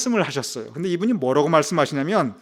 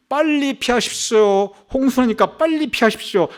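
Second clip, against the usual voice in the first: emergency broadcast; 6 semitones higher than usual. Acted. Siren warning broadcast to evacuate.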